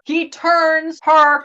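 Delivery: very slow, drawn-out reveal; dramatic drawl. Real, not acted. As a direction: stretch each word for suspense. Repeats the phrase for drama.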